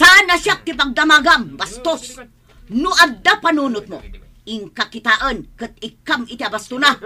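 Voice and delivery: loud heated telling-off; indignant mother lashing out; angry rebuke. Acted. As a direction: put him in his place. Mother berating rude suitor.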